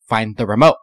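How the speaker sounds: loud demanding order; bossy order. Retold or imitated. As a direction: order them around loudly. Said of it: "Find that remote".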